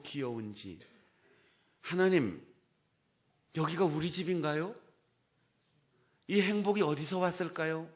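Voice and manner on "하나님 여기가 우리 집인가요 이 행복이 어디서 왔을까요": overjoyed. Retold or imitated. Overjoyed cry to God.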